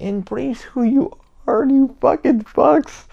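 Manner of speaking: slow, high, building to a loud cry; emphatic exhortation. Real, not acted. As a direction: drag out each word, rising into a shout. Exhorting listeners with drawn-out emphasis.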